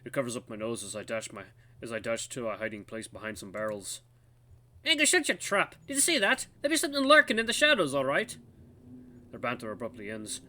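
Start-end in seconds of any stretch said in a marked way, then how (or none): 4.8-8.4 put-on high, urgent old lookout voice; old guard, scolding. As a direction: hush your partner and warn of a lurker.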